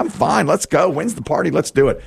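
high, gung-ho joke character; eager acceptance. Acted. Newcomer accepting his neighbor's party invitation, eager and high-pitched. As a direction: play someone raring to get to the party.

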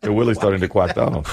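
echoing the W-for-R impediment; speech impediment. Retold or imitated. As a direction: say "Willie's" and "quack" like Elmer Fudd. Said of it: "That's Elmer Fudd".

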